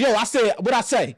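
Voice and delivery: mock stern dad, lightly voiced; a hint of a disciplining father; bass in voice. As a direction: put some authority in it, like a dad. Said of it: "We put some bass in our voice".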